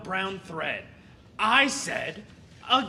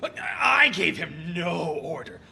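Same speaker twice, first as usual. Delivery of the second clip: shouted denial, stress on I; a shouted protest, leaning on I; indignant shout; 6 semitones lower than usual. Acted. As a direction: throw it back hard, protesting. Tailor disputes the order.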